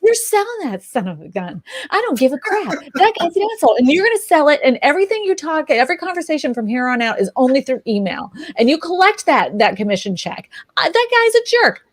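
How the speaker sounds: mock outraged husband laying down the law; husband's rant. Husband telling her to dump the client, fired-up rant. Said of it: "He's like".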